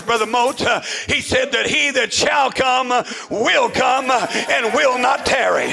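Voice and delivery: shouted revival cadence, punched phrase by phrase; rhythmic, driving pulpit delivery; full-force preaching. Real, not acted.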